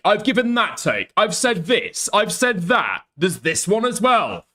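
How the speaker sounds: needling mock of a streamer; mocking Diorio. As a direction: sneer it out like a petty rival. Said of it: "Diorio's like".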